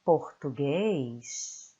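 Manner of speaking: português drawn out, with the final S sounded clearly; final S shown. Shown as a demonstration. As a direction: stretch out português to show the end S. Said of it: "and the S".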